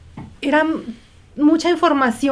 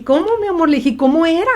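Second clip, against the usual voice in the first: curious mother; 6 semitones higher than usual. Retold or imitated. Mother asks child, retold.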